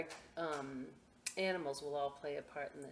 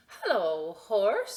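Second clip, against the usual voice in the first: cheerful call; 3 semitones higher, 10 dB louder, slower than usual. Acted. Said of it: "said Duck".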